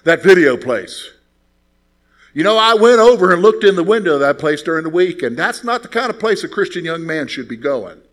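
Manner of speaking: a lightly voiced deacon lecturing righteously; mock stern deacon. Old deacon lecturing the young man on the video store, mock stern. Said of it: "Mister Bogan speaks up and says".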